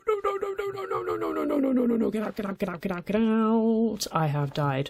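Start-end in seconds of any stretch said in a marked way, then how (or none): 0.1-1.4 frantic high-pitched no; panicking, voice shooting up; panicked high cries. Real, not acted. Panic at powder snow. 1.4-4.1 frantic pleading. Real, not acted. Scrambling out of snow.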